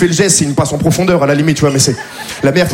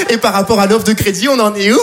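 higher little polite phone voice; lightly raised courteous tone; 3 semitones higher than usual. Retold or imitated. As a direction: put on the sweet bank-customer voice. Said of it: "cette petite voix un peu plus aiguë".

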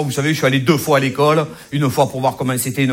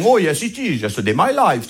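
mock English accent; slower than usual. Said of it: "des Anglais, des Américains".

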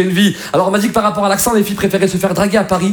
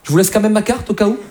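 Marais flirt. Acted. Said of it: "c'est un mec qui drague dans le Marais".

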